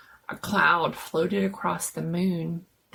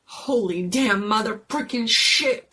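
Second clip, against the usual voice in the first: shocked curse; 3 semitones higher, 5 dB louder than usual. Acted. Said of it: "Danny hissed".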